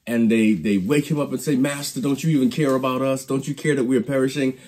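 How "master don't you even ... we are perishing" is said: mildly panicked plea, higher pitch; panicked disciples. Retold or imitated. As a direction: plead with a touch of panic, quickening. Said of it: "The disciples are panicked".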